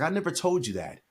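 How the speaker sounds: high-pitched, astonished denial; protesting denial. Retold or imitated. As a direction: retell a dad's startled protest. Father denying it, retold.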